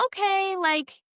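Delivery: a light, upbeat take on a coach gently bargaining; imitating her coach. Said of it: "She's like".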